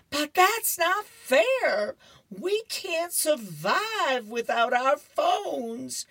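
high, loud, drawn-out mock wail; hysterical Curtis. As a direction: protest like a kid in hammed-up hysterics. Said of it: "Curtis is going crazy".

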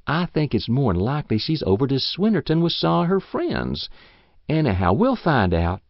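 put-on coaxing old woman. She coaxes him to stay.

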